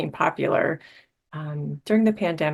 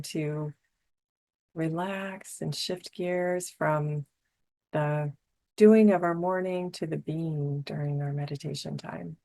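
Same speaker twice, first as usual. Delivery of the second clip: guided meditation; 4 dB quieter than usual. Real, not acted. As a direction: ease listeners into calm with long pauses. Leads a meditation.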